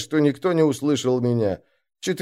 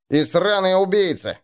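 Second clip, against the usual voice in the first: spat out; 5 semitones higher than usual. Acted. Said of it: "сплюнул кто-то".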